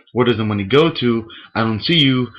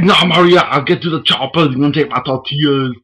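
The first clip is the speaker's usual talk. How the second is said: higher, louder comic action-hero shout; Pablo Francisco bit; 5 semitones higher, 5 dB louder than usual. Retold or imitated. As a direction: ham up the comedian's Arnold bit. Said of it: "Pablo Francisco".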